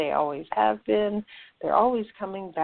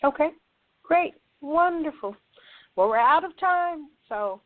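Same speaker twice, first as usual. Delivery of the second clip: higher, halting delivery with long pauses; pitched up, as if someone is coming through; odd channeled voice; 5 semitones higher than usual. Real, not acted. Channeler closing the show and thanking listeners, odd high voice. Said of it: "I don't know why I'm talking like this".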